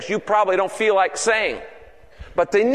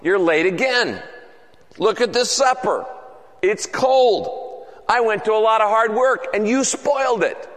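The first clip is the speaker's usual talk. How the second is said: mock accusing wife. Wife lightly accusing late husband, mild scolding. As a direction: nag him lightly about the cold supper. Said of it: "his wife says in an accusing tone".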